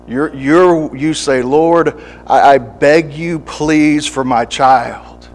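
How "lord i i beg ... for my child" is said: pleading prayer. Acted. Praying parent begging God.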